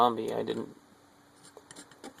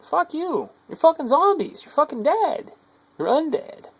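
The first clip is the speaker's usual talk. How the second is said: yelling much higher and louder; furious shout; 6 dB louder than usual. Real, not acted. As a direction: hurl it at them in a rage. Ranting at humanity as zombies.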